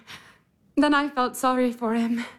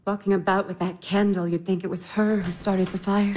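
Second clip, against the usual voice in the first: snide joke with a laugh; mocking laugh; 6 semitones lower than usual. Masha mocking Natasha to her sisters with a laugh.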